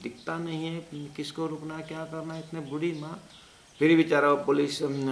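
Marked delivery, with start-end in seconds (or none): 0.0-3.2 higher-pitched retold telling-off; mock scold a careless constable; officer scolding. Senior officer reprimands constable over old mother, mild mock scolding. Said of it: "उसने इतना उसको डांटा".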